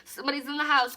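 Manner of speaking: loud laughing panic at a noise upstairs; panicked yell. Retold or imitated. Retelling hearing someone upstairs in loud panic. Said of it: "and I was like".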